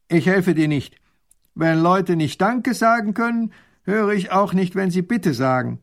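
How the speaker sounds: loud stubborn refusal; stubborn farmer. Acted. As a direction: put the proud duke in his place. Farmer lectures the grand duke.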